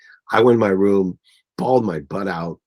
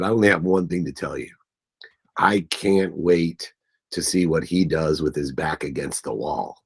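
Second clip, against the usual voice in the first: real choked up; 4 semitones lower than usual. Real, not acted. Retelling uncle's faith in him, choked up. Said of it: "get choked up".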